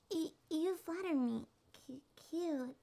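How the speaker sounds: stammering, flattered shyness; flustered. Acted. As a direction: trip over the first syllables, bashful at the compliment.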